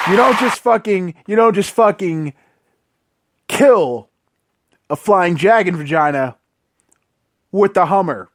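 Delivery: each word set apart by long pauses, KILL hit hard. Real, not acted. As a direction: spell out the absurdity word by word, pausing between. Outraged emphasis, slow pauses.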